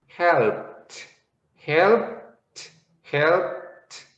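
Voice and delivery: "helped" repeated with a crisp t at the end; teaching repetition. Shown as a demonstration. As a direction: repeat "helped" slowly for students. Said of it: "so you would say".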